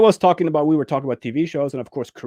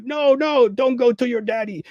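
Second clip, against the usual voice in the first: soothing survivor; 8 semitones higher than usual. Retold or imitated.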